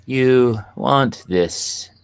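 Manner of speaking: tempting devilish whisper; She voice. Retold or imitated. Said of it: "in my best She voice".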